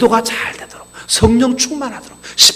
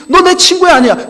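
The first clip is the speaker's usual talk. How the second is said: higher, louder indignant confronting; retold angry outburst from an offended friend; 9 semitones higher, 6 dB louder than usual. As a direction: let the hurt friend bark his grievance. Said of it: "화가 잔뜩 나 찾아왔어요".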